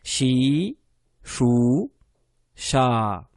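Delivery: shi chou cha said separately and clearly; syllable drill. Shown as a demonstration. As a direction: drill the three syllables again. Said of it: "On continue". (syllabes détachées)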